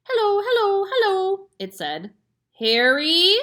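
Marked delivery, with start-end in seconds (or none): 0.1-1.5 high, loud squawking parrot; parrot calling. A narrator's reading. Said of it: "a voice came loud and clear". 2.6-3.4 high, loud alarmed call to husband; frightened cry. A narrator's reading. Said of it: "cried the mother".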